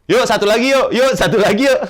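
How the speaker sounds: high, loud hawker's call for passengers; touting angkot driver, loud and high. Retold or imitated.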